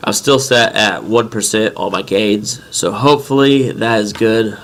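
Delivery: stuffy congested voice; blocked nose. Real, not acted. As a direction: talk through a blocked nose. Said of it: "I'm so congested".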